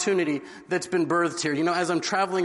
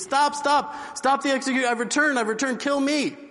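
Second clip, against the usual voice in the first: screaming stop; 6 semitones higher than usual. Retold or imitated. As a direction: yell across the square to halt the hanging. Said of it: "and he screams".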